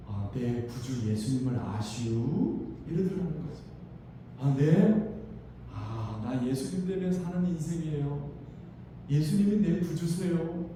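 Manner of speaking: put-on a frail old lady sharing her joy; old grandma's voice. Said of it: "할머니가 이러시는 거예요". (할머니 목소리)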